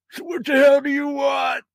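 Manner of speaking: put-on high, loud grumpy old man; cranky shout. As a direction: yell like an annoyed grandpa. Grandpa ghost shouting.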